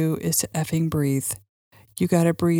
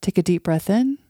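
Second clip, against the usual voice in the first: soft spa whisper. Acted. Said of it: "a guided meditation".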